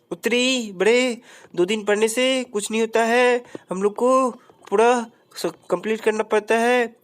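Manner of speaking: lightly voiced smug sidekick. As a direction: scold him like a smug friend. Answering character voice.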